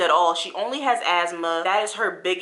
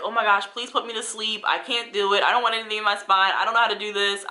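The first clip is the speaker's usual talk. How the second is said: mildly panicked pleading, slightly higher; retold panic; 3 semitones higher, faster than usual. Patient begging the team before her epidural, mock freaking out. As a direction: recount a frantic plea with a touch of panic. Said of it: "I was freaking out".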